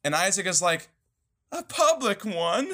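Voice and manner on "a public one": high, slow, drawn-out echo in disbelief; mock incredulous question. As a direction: repeat it as if scandalized, playing it for laughs. Acts out Isaac's incredulous reply.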